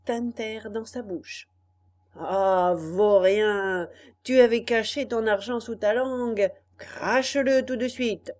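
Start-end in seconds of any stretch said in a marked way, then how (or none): 2.1-8.3 loud furious scolding; angry shout. Acted. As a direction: snarl at the little rascal. Robbers catch the hidden coins.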